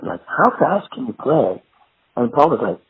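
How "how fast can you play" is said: slower, earnest question; lightly acted curious questioner; imitated interviewer question. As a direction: ask it slowly, like a keen interviewer. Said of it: "somebody said".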